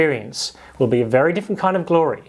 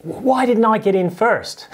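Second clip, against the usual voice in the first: sour grapes; 7 semitones higher than usual. Acted. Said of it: "What they really mean is".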